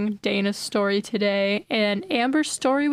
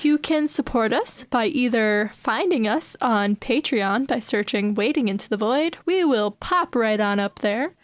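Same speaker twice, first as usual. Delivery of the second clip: put-on Valley Girl voice. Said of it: "that's enough of the Valley Girl voice".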